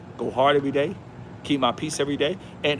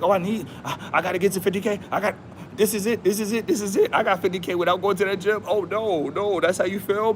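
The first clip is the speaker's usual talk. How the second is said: worked-up gym member; 3 semitones higher than usual. Retold or imitated. Retold gym member complaining.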